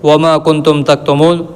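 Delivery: slow, drawn-out chanted Arabic verse; Quran recitation. Acted. Teacher reciting God's words to students, slow chanted recitation. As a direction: recite it unhurried, like tilawat.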